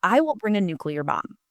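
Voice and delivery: soft conspiratorial whisper; whispered vow. Retold or imitated. Telling interviewers her motto in a whisper. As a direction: breathe it like a secret weapon. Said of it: "I'm like".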